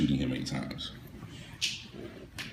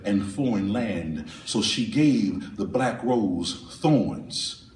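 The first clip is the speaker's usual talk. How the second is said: poem reading; 3 semitones higher, slower than usual. Acted. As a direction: read the poem with weight and slow pauses.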